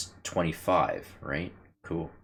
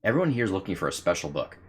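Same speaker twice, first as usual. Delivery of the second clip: firefly voice; 4 semitones higher, 4 dB louder, faster than usual. Acted. Voicing the firefly's reply.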